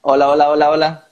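loud hello into the line; calling out. Real, not acted. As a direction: call out to check the connection. Checking if call reconnected.

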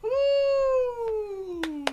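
high laughing whoop; laughing woo. Real, not acted. Giddy outtake after sign-off.

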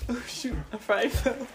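laughing. Retold or imitated. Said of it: "Can we just put it as that?".

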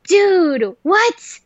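high, punched disbelief; retold shocked exclamation; incredulous outburst. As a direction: react like you can't believe it. Incredulous reaction to boss.

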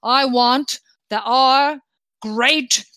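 lightly voiced, stammering monarch with bursts of laughter; jovial, rambling king. King briefs the crew on what he wants, lightly blustering and jolly. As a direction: bluster along merrily, stumbling over words.

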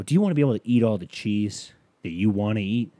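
upbeat ad pitch to camera; white guy commercial. Pretend. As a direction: turn to camera and sell it. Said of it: "White guy commercial".

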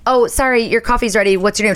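mock barista, brisk and bright. Barista voice in story.

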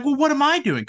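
imitating Kate. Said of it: "Kate was just like".

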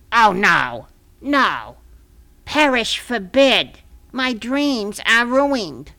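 slow, melodramatic fake heartbreak; hammed-up despair. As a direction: overact being crushed, drawn out. Gertie fakes being heartbroken.

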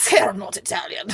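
lightly mocked Italian accent. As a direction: imitate an Italian's dismissive denial. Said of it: "the Italian was like".

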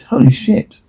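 sudden high shocked outburst; shocked exclamation. Acted. Stunned at what he sees, shocked blurt.

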